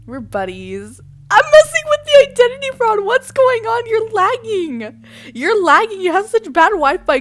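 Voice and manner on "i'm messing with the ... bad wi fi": high, loud rant; mock-hysterical yelling. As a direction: shriek the complaint at the opponent. Yelling at lagging identity fraud.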